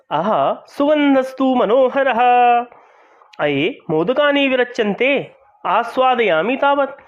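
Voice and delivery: pleased husband Chandan, lightly voiced; delighted husband. Teacher voices Chandan's lines.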